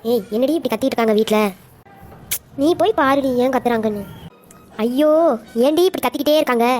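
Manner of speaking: loud, irritated outburst; loud grumbling. Acted. Woken friend grumbles about shouting in the house, loud irritation. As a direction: complain loudly about the racket.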